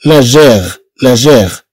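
جير with a soft French j, not a hard g; soft j demo. Shown as a demonstration. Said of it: "لأن لا غير بهاد النطق هي اللي تتعني الحرب". (جير بجيم فرنسية ناعمة لا بغين صلبة)

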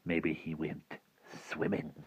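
slow, soft insinuation; sly suggestion. Acted. Rictus hinting at Wendell's fate, quietly sly. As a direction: let it out slowly and quietly.

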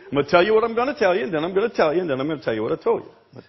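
the same formula rattled off at double speed after a laugh; saying rattled off. Shown as a demonstration. Preacher repeating the formula to the congregation, rattled off fast. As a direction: race through it like a tongue-twister, tossed off. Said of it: "That way we cover it all".

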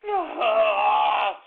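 long, loud moan; drawn-out exasperated wail; anguished groan. Real, not acted. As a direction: groan out the frustration. Cannot let it go.

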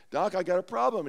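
march back in and challenge the doc; retold brash complaint; acted challenge. Joe returns to challenge the doctor.

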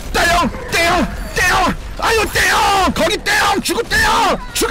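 high repeated battle yells; high rising war shouts; excited shouting. Real, not acted. Hammering enemies in a fight.

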